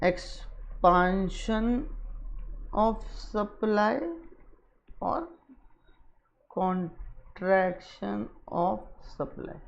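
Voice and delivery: very slow, soft, broken into syllables; low, drawn-out, with long pauses; writing-along pace. Real, not acted. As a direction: murmur it piece by piece as you write. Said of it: "मैं इसलिए दोबारा यहाँ पे लिख रहा हूँ".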